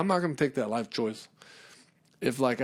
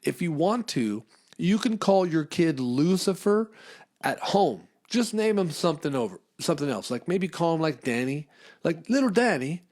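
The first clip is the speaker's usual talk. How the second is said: pitched-up mock official advice; mock town official; 5 semitones higher than usual. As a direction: sweetly suggest a nickname. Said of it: "the town actually told them".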